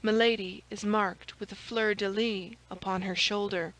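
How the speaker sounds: ordinary delivery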